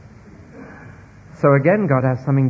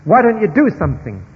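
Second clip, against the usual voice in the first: agitated complaint; 4 dB louder, faster than usual. Retold or imitated. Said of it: "the Habakkuk that said".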